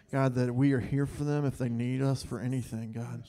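steady, earnest prayer voice; heartfelt prayer. Real, not acted. Leader prays over the pastor couple in front of the church, earnest.

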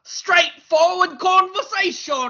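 high, slow, loud mock British accent; hammed-up British accent. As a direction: put on a silly British gent accent. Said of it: "it started out as British".

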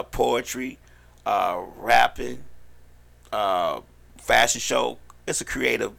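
measured event announcement; promotional plug. Pretend. Host selling the queens' showcase to listeners, promotional read. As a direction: plug it, drawing out each act. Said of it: "uh, little plug".

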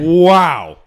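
high shrieking laugh. Real, not acted. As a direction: laugh out loud. Partner reacts, laughing loudly.

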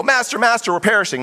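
high-pitched mock alarm; scared fishermen. Fishermen to Jesus in the storm, mock panic. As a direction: cry out as if the boat is sinking. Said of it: "these seasoned fishermen are really scared".

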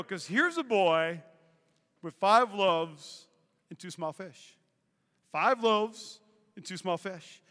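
slow right down, softening on the last words; hushed storytelling. Real, not acted. Preacher turning to the boy's story, slow and hushed. Solemn turn to Bible story.

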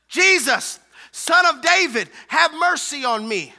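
high, forceful hollered plea. Acted. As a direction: shout it out over the hushing. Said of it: "And he shouted louder".

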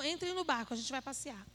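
light, offhand suggestion of a boat ride; not a command, a breezy invite to a tour; casual invitation. Retold or imitated. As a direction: toss it off like planning a fun outing. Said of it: "Não foi assim".

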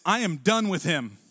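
mock marital tirade, rising and drawn out at the end; fed-up spouse. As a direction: vent like a spouse at the end of it, slowing on the threat. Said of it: "It looks something like this".

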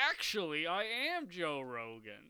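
slow, put-on bad impression; a weak try at his voice; Joe Rogan impression. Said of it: "Is that his voice? That's not his voice".

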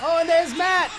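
shouted, drawn-out big-move call; live play-by-play. Acted. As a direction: roar the move name.

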